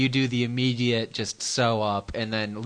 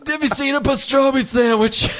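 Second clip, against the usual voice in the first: high, louder comic voice; silly put-on voice; 11 semitones higher, 5 dB louder than usual. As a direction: ham it up with a squeal.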